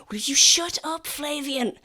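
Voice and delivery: high, small irritated voice; little voice. Acted. Smallest soldier to Flavian while running away, little irritated voice. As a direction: snap in a small high-pitched voice. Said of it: "just, like, a little voice".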